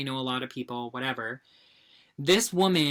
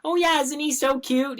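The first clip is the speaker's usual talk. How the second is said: higher, bright gushing question; mock cheery gushing; 10 semitones higher than usual. Imitating the wife showing off her dog's photo, cheery and higher. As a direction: gush like a proud dog owner. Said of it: "the way the delivery was".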